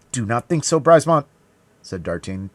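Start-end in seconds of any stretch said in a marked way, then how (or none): 0.1-1.3 loud, high plea; urgent protest. A narrator's reading. D'Artagnan to dying Brisemont, loud urgent protest. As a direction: plead urgently to be believed.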